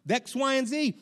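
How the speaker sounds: mock yell rising to a high "stop"; retold yell. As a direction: imitate an urgent parental warning. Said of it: "I start having to yell at him".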